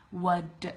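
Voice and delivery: "What do" as "wuh-duh"; slowed reduced form. Shown as a demonstration. Teacher trying to say it slow, reduced form. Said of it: "it's hard to say it slow".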